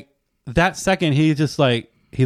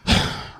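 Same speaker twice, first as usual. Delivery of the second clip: short voiceless huff, imitating a dog; imitated dog sigh; 3 dB quieter than usual. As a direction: let out a dog's huff. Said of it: "he, like, let out that".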